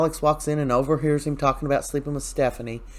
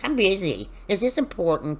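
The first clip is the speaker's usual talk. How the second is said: higher-pitched, impatient mock snippiness; put-on irritated busy voice; snippy brush-off; 5 semitones higher than usual. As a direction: imitate someone curtly refusing an interruption. Acting out Gabby brushing Melinda off.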